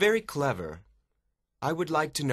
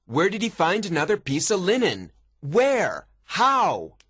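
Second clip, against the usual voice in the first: high, agitated questions, building louder; exasperated warden; 7 semitones higher, 4 dB louder than usual. A narrator's reading. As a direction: fire out baffled questions. Warden baffled by the message.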